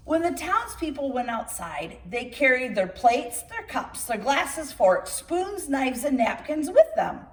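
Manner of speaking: put-on lively read-aloud storytelling for children; storybook reading. Reader telling children a tall tale, lively storybook narration. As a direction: read it like bedtime story time.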